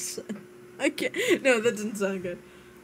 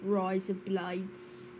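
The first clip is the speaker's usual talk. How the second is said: put-on Scottish accent; 5 dB quieter, slower than usual. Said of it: "Scottish phrases".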